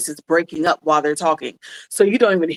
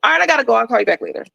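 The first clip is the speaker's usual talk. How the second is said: bright, much higher quick goodbye after unloading; breezy brush-off; 5 semitones higher, faster than usual. Retold or imitated. Friend dumps problems, then breezily hangs up with a much higher quick goodbye. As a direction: toss off a careless goodbye and hang up. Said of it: "and is like".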